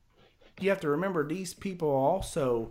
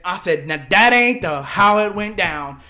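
loud, higher, laughing protest; indignant shout; 4 semitones higher, 10 dB louder, slower than usual. Retold or imitated. Teller yelling at the lawn chair guys, loud and laughing. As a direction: shut them down through a laugh.

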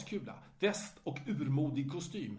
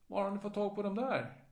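halting German; 6 semitones higher than usual. Retold or imitated. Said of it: "säger hon då på stapplande tyska".

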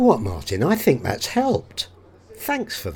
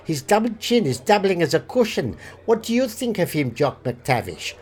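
put-on German accent. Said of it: "Hans is German".

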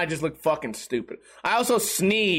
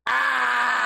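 long moan turning into a creaky cackle; evil zombie noise; 4 semitones higher than usual. Shown as a demonstration. Stretching in bed, evil zombie groan. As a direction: stretch out a zombie groan, then let it rattle. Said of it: "I make an evil zombie noise".

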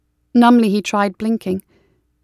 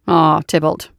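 warm; 3 semitones lower than usual. Acted. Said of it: "said Willem warmly".

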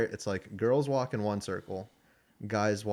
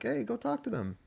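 higher-pitched nudge from a retold dad; urging dad; 12 semitones higher, 3 dB quieter than usual. Dad to his shy sons about the girls, urging. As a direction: imitate a dad pushing his boys.

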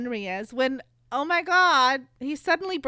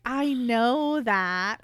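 slow indignant; 3 dB louder, much slower than usual. Retold or imitated. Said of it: "And Henry's like".

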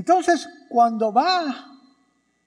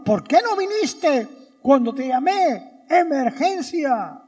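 a touch of indignant reproach; grieving sister scolding Jesus, mildly angry; 5 semitones higher than usual. Retold or imitated. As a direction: demand it like a hurt, annoyed friend. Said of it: "Yo estuviera enojado".

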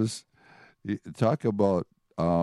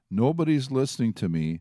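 a higher-pitched, exasperated prophet's lament; frustrated complaint; 4 semitones higher than usual. Acted. Preacher voicing Jeremiah, mocked for his warnings, in frustrated complaint. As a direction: voice mild exasperation at being ignored.

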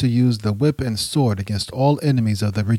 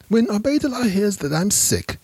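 high, strained voice of a sick man; sick plotting man; 9 semitones higher than usual. Acted. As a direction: scheme through the illness. Sick Shadik plots the killing.

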